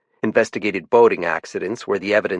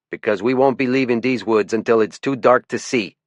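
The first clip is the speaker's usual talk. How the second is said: put-on sharp louder challenge in a light French-Canadian accent; lieutenant calling out a warden, faint French-Canadian lilt; a touch of French-Canadian accent, higher; 5 semitones higher, 4 dB louder than usual. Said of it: "His accent tended to make his T H's sound like D's".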